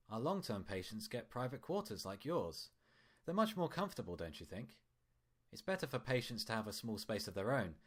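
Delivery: lightly voiced doctor, smooth and friendly; a hint of a cheerful hospital doctor; doctor Dreamer. Doctor speaking to patient.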